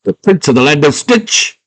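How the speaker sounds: high-pitched gullible delight; hammed-up happy surprise; all happy. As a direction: squeal it as a thrilled little fellow. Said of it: "Hoggle gets all happy".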